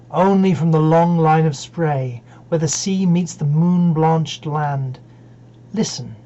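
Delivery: measured verse reading with spacious pauses; poem recitation. Acted. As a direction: recite phrase by phrase, unhurried. Recites Dover Beach.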